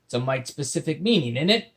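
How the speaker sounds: loud, curious pirate. Acted. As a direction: ask it like a genuinely puzzled pirate. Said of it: "legitimate curiosity filling his words".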